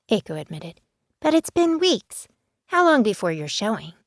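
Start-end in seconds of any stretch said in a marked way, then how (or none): 1.2-3.9 put-on insistent teen. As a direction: press the point, drawing out weeks.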